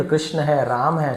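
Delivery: कृष्ण and राम without any added final aa; native Hindi endings. Shown as a demonstration. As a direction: end राम on the m, कृष्ण short. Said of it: "नहीं भैया".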